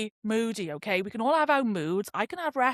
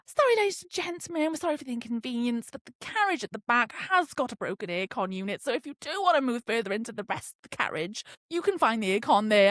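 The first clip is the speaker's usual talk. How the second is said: train announcer. Retold or imitated. Imitates train staff announcement.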